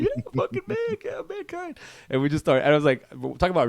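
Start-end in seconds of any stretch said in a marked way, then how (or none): 0.0-1.8 very high, drawn-out mock cheer; excited fan imitation. Other fan in the theater answers, excited mock cheer. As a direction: squeal it slowly, fading at the end.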